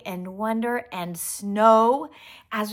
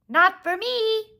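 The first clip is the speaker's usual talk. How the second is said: robin voice; 12 semitones higher, 6 dB louder, slower than usual. Acted. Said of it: "said the robin".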